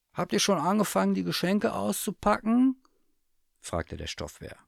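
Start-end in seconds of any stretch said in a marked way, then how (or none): 0.1-2.8 high, quick bear voice; eager stuffed bear. A narrator's reading. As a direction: ask it fast and high, eagerly. Bear asks eagerly about presents.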